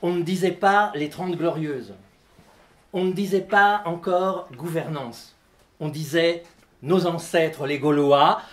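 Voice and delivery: measured list-poem recitation with pauses; declaimed text for an audience; live literary reading. Acted. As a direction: read it as a litany, item by item. Reads own text aloud.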